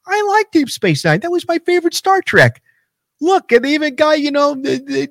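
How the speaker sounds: high, excited mock fan voice; imitating Shivani. Co-host imitated gushing over Star Trek, high and excited. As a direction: gush like a fan spotting a favorite. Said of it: "And Shivani goes".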